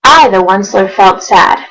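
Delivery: rhythmic read-aloud of rhyming verse; storybook narration. A narrator's reading. Reading Dr. Seuss to viewers, lively storybook narration. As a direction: read it like a bedtime picture book.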